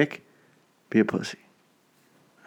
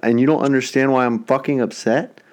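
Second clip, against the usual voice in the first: high, exasperated rant; mock furious scolding; retold outrage; 3 semitones higher than usual. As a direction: voice shooting up in disbelief. Retold angry confrontation.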